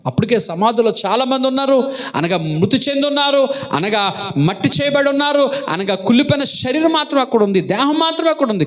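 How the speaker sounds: high-pitched building sermon cadence; fervent preaching. Real, not acted. Preacher raises pitch to intone.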